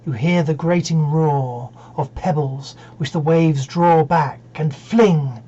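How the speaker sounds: measured verse reading with spacious pauses; poem recitation. Acted. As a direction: recite phrase by phrase, unhurried. Recites Dover Beach.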